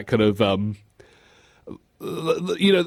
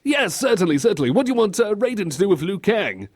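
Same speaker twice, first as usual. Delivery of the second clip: put-on high, eager grown-up humouring a child; hammed-up doting adult; indulgent adult; 8 semitones higher than usual. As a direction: agree brightly and ask the kid. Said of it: "suggesting what you want for lunch".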